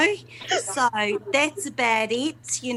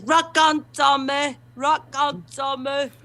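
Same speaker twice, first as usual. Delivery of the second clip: Bobby Ball catchphrase. Retold or imitated. The speaker does her late panto partner's catchphrase, mock shouted. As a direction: belt out the catchphrase like the late comic. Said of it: "When he does his".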